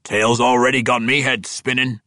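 bewildered dwarf, loud and high. Acted. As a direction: sound dazed by the tale. Orethio Spike speaks.

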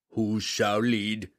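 slow, blunt demand. A narrator's reading. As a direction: ask it flat out like a king. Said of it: "the giant asked bluntly".

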